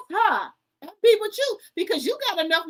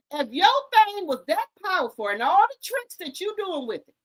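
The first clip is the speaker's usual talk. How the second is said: hollering; 4 semitones higher than usual. Real, not acted. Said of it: "excuse me if I'm hollering".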